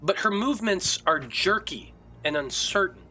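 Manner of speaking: dramatic scene setting with long suspenseful pauses; game master's narration. A narrator's reading. Game master describes Irina's agony to players, suspenseful narration. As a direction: draw out the eerie scene, phrase by phrase.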